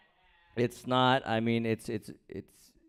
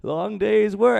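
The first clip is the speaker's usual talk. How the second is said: higher, dreamy relaxed sigh of a voice; mock blissed-out sauna guy; 9 semitones higher, 4 dB louder than usual. Comic playing himself relaxing in the sauna, higher blissed-out voice. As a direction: play it like someone melting into the heat. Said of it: "I'm like".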